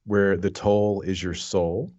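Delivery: slow, dramatic tagline read; trailer voice. Shown as a demonstration. Reading the film's tagline to cohosts, dramatic. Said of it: "Let me read you the tagline".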